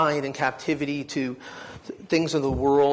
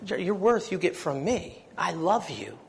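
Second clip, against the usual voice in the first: soft, tender words from God; God's reassuring voice; 3 semitones higher, 3 dB quieter than usual. Retold or imitated. Preacher voicing God's tender reassurance to him. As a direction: speak it gently as God's comfort. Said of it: "let a little bit of the truth out".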